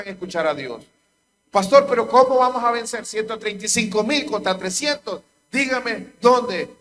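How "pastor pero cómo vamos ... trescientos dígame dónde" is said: louder, higher protest to the pastor; demanding, raised-voice objection; incredulous churchgoer. Acted. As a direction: challenge the pastor in disbelief. Acting a doubting churchgoer's objection.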